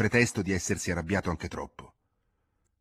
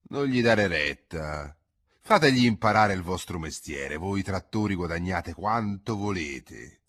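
calm conviction; 6 dB louder than usual. Acted. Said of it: "con convinzione tranquilla".

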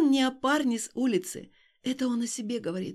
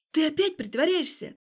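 angry question; 5 semitones higher, 4 dB louder than usual. Acted. Alina confronting Stas.

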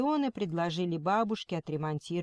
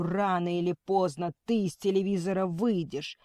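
shouting at TV. Acted. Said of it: "кричал на ведущую".

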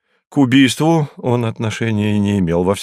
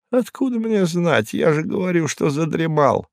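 higher, rattled voice of a frightened man; shaken Hinkus; 7 semitones higher than usual. Acted. Hinkus telling the detective he woke under a table, rattled and higher. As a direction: blurt it out like someone still in shock. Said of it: "Hinkus answering the detective".

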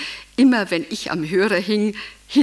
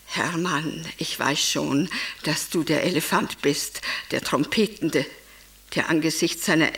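tender; 4 semitones lower than usual. Acted. Speaks to absent Hermann intimately.

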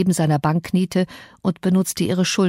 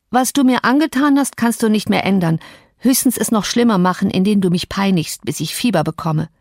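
put-on petulant sick boy; 3 semitones higher than usual. Sick Linden blaming Cathy, lightly voiced and peevish. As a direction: whine the reproach like a spoiled sick boy.

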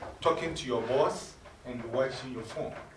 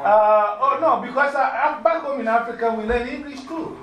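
laughing; 8 semitones higher, 6 dB louder than usual. Real, not acted. Laughing reply to accent tease.

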